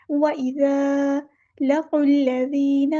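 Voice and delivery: لَقُوا الَّذِينَ with the ق running straight into the doubled ل; slow tajweed recitation, ق joined to ل; joined qaf to lam. Shown as a demonstration. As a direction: link qaf to lam, drop the hamza. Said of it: "قاف کو ہم نے لام کے ساتھ ملا دینا ہے".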